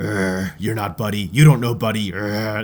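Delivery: snarling, dog-like snarled delivery. Describing voice actors doing dialogue as dogs looking for Buddy: snarling dog voice. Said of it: "impressions of a snarling dog".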